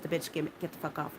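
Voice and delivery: low, soft, inward curse; said in my head. Retold or imitated. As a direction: mutter it to yourself under your breath. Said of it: "in my head".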